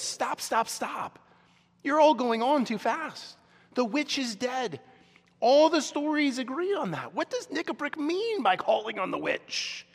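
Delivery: put-on high-pitched, urgent old doctor objecting; alarmed protest. Doctor Cornelius halts Nikabrik's talk of the witch, alarmed protest. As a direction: cut in and protest, voice pitched well up.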